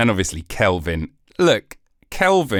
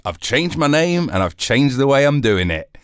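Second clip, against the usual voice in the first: giddy Celsius; 4 semitones higher than usual. Retold or imitated. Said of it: "Was he like".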